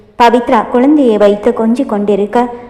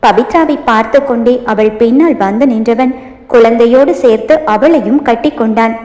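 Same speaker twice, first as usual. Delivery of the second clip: usual speaking voice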